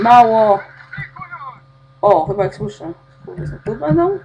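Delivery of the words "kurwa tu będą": laughing through the words, then much higher laughter. Real, not acted. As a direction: crack up at the chaos. Laughs at chaos in game. (śmiech przez słowa)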